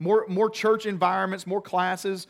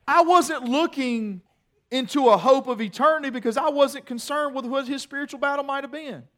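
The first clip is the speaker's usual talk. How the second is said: higher, laughing through the words; laughing confession; 8 semitones higher, 5 dB louder than usual. Real, not acted. Preacher confessing his temper to congregation, laughing. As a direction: admit it while laughing at yourself.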